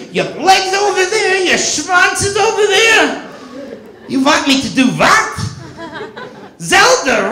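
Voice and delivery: seventy-two Jewish virgins. Retold or imitated. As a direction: kvetch like a disappointed Jewish bubbe. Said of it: "Can you imagine it?".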